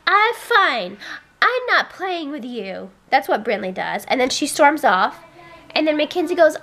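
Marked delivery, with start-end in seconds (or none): 0.1-2.9 higher-pitched mock huffy child; mock kid yell. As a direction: imitate a daughter's yell without really yelling. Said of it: "And then they yell".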